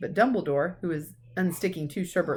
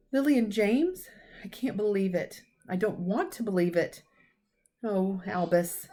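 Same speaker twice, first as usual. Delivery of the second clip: shocked; 3 semitones higher than usual. Acted. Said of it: "Professor McGonagall gasped".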